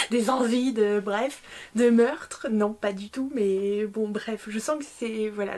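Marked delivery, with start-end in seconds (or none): 0.1-2.5 faussement sinistre. Pretend. Blague sur ses envies de meurtre.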